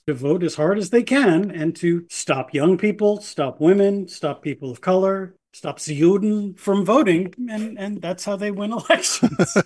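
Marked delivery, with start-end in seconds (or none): 5.5-7.3 put-on German accent, slowed; mock German accent. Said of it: "I promised to stop doing German accents".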